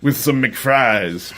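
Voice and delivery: laughing through a joke. Real, not acted. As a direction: say it while cracking up.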